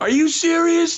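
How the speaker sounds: mock, shrill, loud, very high-pitched shout. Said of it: "And I yell so loud".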